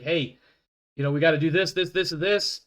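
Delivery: lightly hammed Scottish Italian doctor; fast, excited Scottish Italian accent. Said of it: "He has a Scottish Italian accent".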